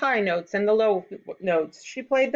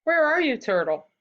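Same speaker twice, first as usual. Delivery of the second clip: high-pitched call for someone missing; 7 semitones higher than usual. A narrator's reading. Children search for the missing turtle, calling out. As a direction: call out high, dropping on the last word.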